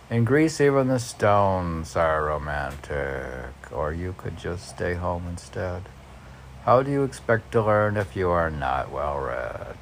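reading a poem aloud with feeling. Acted. Reads poem lines aloud.

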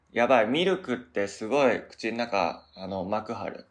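talking with milk coating the mouth; milk-coated mouth. Real, not acted. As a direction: speak right after a sip of milk.

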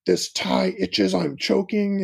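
slow, dragged-out mock complaint; milk it like a bored boy hamming it up; whining kid. Dad imitating his son whining at the Nutcracker, slow mock complaint. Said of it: "trolling us and being obnoxious".

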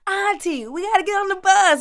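put-on high, light child's voice; little niece calling. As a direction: play the six-year-old niece urging her aunt. Niece voiced calling her auntie.

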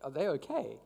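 hushed, as if whispering about a stranger; concerned onlookers. Retold or imitated. Bystanders watching an ugly cry, quiet worried murmur. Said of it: "people are wondering".

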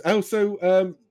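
cheery dad voice. Acted. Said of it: "he goes".

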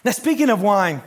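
out of breath and halting; gasping between words. Real, not acted. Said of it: "I'm out of breath".

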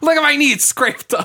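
mock injured whine. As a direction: whine like a hurt kid, hammed-up. Acting injured clerk whining.

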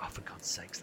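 breathy unvoiced groan of frustration; exasperated whisper. Streamer failing a jump minutes before quitting, whispered exasperation. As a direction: whisper it in defeat. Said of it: "And I'm like".

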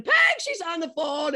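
high-pitched mock holler; retold scream. Mick hollering to his wife about the caller, mock scream. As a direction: call out urgently, imitating an excited husband. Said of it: "he goes screaming".

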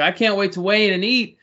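light, high, eager voice of a happy fighter; a hint of a giddy fighter at the scale; cheerful fighter. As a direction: play the guy who can't wait to eat. Imitating a cheerful fighter at weigh-ins.

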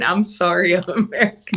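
lightly mimicked sheepish apology; apologetic imitation. Listener imitates the traveler apologizing for being American, mildly apologetic. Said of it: "It's the way you're saying".

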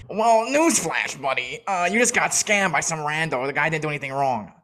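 put-on smug know-it-all voice; mock the commenter, drawing out the opening. Mimicking a no-profile-picture TikTok commenter, mockingly.

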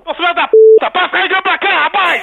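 loud angry outburst at a prank caller; real irritated yelling; angry cursing. Real, not acted. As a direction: curse him out loudly. Irate man curses prank caller.

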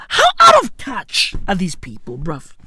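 exasperated shout about the out-of-touch rich; ranting shout. Real, not acted. Ranting to viewers about out-of-touch rich, exasperated shout. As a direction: lay into them, fed up.

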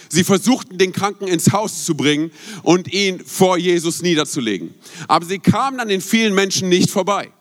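slow, weighty Bible reading; preacher reading the healing story to his congregation, slow and solemn; scripture reading. Acted. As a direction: read the passage out to the church, slowly. Preacher reads scripture aloud.

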